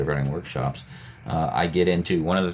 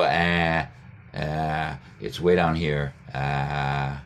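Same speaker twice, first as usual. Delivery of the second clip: demo vowel; 2 semitones lower, much slower than usual. Shown as a demonstration. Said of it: "if we go".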